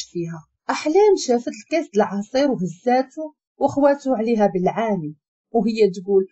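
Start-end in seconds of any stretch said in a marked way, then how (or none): none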